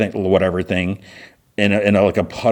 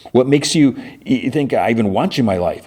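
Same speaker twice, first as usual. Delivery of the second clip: mildly indignant mock challenge, pitched up at first; retold indignation; 4 semitones higher than usual. Son rejecting his returned father, mildly indignant retelling. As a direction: throw it back as a scornful question, lightly acted.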